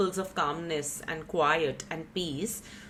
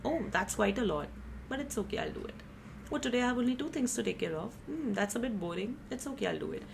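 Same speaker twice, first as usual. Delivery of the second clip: softer, easygoing inner voice; calm acceptance; 2 semitones higher, 5 dB quieter than usual. Retold or imitated. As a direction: shrug it off gently, at peace. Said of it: "with a sense of peace".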